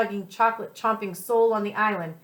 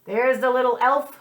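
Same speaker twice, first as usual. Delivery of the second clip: excited cry; 3 semitones higher, 4 dB louder than usual. Acted. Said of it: "cried Pete".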